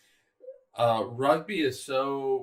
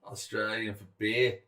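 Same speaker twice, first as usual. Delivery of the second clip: put-on Australian accent. Quotes beer slogan in accent.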